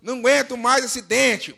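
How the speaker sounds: loud, exasperated parody; mock complaining. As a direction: moan about it theatrically. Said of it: "tudo que você não reclamasse".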